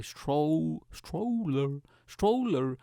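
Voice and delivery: "stroller" attempted haltingly, starting over; drawn-out, careful tries at "stroller"; struggling to pronounce. Shown as a demonstration. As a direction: work at saying "stroller" properly. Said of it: "I can't pronounce it properly".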